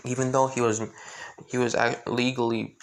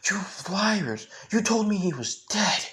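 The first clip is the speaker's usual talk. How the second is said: accusing; 8 semitones higher than usual. Acted. Surgeon accusing the nurses.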